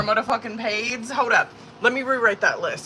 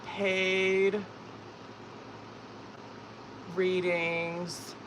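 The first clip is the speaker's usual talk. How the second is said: absorbed typing aloud; 4 semitones lower, 11 dB quieter, much slower than usual. Real, not acted.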